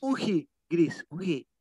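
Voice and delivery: Uji said slowly and deliberately; slow word demo. Shown as a demonstration. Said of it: "Un gris".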